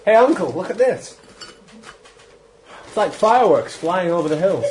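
schoolboy voice. Acted. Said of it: "you are like something from Just William".

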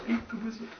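said through a laugh; giggling repeat of the chant. Real, not acted. Player giggling while repeating the wizard chant.

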